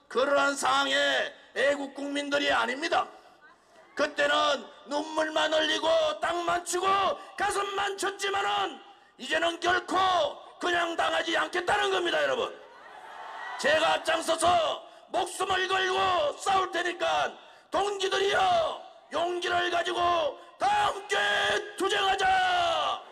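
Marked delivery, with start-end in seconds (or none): 3.9-12.5 impassioned shouted rally speech; roaring rallying speech. Real, not acted. Rally speech building to climax. 13.6-21.2 high shouted call to comrades; rally the comrades, full force; roaring rallying speech. Real, not acted. Rally climax calling comrades. 21.8-23.0 slow drawn-out 투쟁하자, high and shouted; roaring rallying cry. Real, not acted. Final rallying call.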